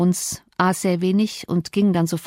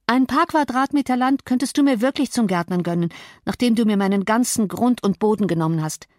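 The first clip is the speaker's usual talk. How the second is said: lightly raised pitch for a defiant Cathy; defiant young woman, lightly voiced; 3 semitones higher than usual. Cathy answers her father-in-law for the young man, lightly defiant. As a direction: answer back with a touch of indignation.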